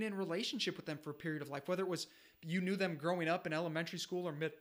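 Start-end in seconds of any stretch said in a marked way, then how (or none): 1.7-4.5 getting choked up, fighting tears. Real, not acted. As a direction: voice tight with emotion, choked up. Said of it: "I'm getting choked up talking about this".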